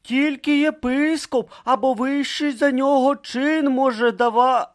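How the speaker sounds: cut-off objection. Acted. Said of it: "почав було Бруто".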